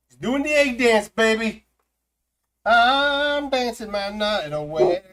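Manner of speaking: high, loud, slow sing-song cheering; excited high cheer. Pretend. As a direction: cheer the egg dance like a party.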